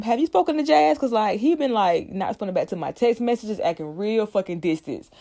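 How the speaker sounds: put-on high, girlish fretting voice; Hillary quoted. Hillary asking Will about her boyfriend, high and fretful. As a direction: pitch up high like a worried girlfriend. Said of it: "she's like".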